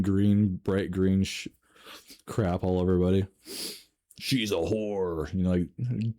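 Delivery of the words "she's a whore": slow, deep guttural possessed growl; Satan-y demon voice. Retold or imitated. Narrator imitating the screaming sister-in-law as a guttural demon. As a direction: growl it out like a demon has taken over. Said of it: "deep guttural Satan-y voice".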